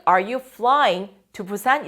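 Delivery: Are you taking the subway to school? said very slowly and clearly; slow, careful question for the class; slow model question. Shown as a demonstration. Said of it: "teacher models the question".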